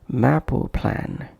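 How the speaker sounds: slow MAP PLAN with an "oo" between; extra vowel inserted. Shown as a demonstration. Teacher demonstrating a wrong pronunciation, extra vowel inserted. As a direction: stretch an "oo" after "map", as in "mapu plan". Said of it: "avoid bringing any other sound between".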